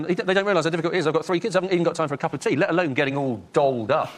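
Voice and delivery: harassed mum. Retold or imitated. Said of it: "She said brilliantly".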